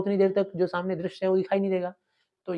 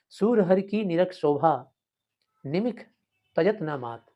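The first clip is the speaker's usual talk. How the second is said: verse recitation; 2 semitones higher, 3 dB louder, slower than usual. Shown as a demonstration. Teacher recites poem lines.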